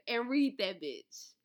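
whispered slowly as a cheeky aside; sly whisper. Real, not acted. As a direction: drop to a breathy secret for the last words. Playful aside after the book plug.

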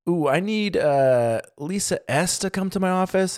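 high, nasal-free principal on the intercom; school principal voice. Retold or imitated. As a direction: do the Simpsons principal, lightly. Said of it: "he goes, uh".

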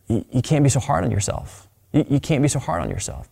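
softly reassuring, like a friend; gentle consolation. Acted. A friend consoles crestfallen Peter that night, gentle and soft. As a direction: comfort them in a softened voice.

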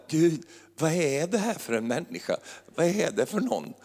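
retold plea to God. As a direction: play her asking God in bewilderment. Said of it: "började jag ropa till Gud". (härmad, förbryllad bön till Gud)

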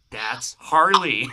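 high, loud fan outburst; excited scream. Retold or imitated. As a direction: shout it out drawn out, thrilled. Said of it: "I s-, just screamed".

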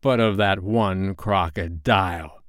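slow, deliberate weight on "one crocodile"; single out "one crocodile", unhurried; correcting. A narrator's reading. Hook correcting his bosun, slow weight on "one crocodile". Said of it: "Hook corrected him".

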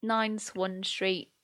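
slow, careful reading of an unsure address. Real, not acted. Reading an unfamiliar Scottish address aloud, slow and careful. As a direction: spell it out slowly, unsure of the name. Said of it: "I don't know how to pronounce this".

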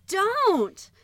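loud high scream of Don't; a weakened man screaming no. A narrator's reading. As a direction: yell it with everything left. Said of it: "Jacob screamed with all the power".

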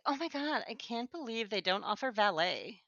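a hint of a bratty young girl, quiet and breathy; entitled millennial girl. Shown as a demonstration. Sister imitation, lightly voiced entitled girl. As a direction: lightly play the spoiled girl who can't believe there's no valet. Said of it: "that weird, like, millennial girl kind of".

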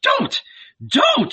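high, urgent exclamations; urgent plea. A narrator's reading. Salome stopping Mary at the mother's lips, urgent plea. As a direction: plead urgently, pitched well up.

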